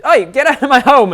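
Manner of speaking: high, loud mock holler; imitated shout. Game master replays the character's shout at intruders, imitated yelling. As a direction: yell it out as if chasing off trespassers. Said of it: "you shout this".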